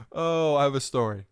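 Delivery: talking around ice in the mouth; words muffled by ice cubes. Real, not acted. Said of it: "I have ice in my mouth".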